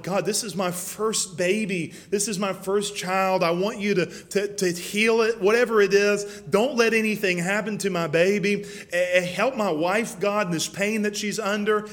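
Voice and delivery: building retold plea, without real sobbing; retold tearful prayer. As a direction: plead with God, reenacting desperation. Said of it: "laying on my face crying".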